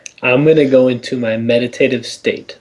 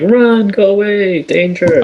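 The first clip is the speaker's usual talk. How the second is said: urgent warning; 8 semitones higher, 4 dB louder, slower than usual. Pretend. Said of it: "gonna be like".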